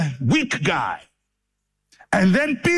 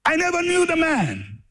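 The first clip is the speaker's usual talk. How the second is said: vehement denial; 12 semitones higher than usual. Retold or imitated. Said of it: "he swears vehemently".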